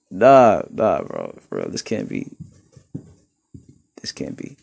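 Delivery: low hushed, almost whispered disbelief; mock disbelief. Streamer reacting to a troll's name, hushed mock disbelief. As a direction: sink into a stunned murmur.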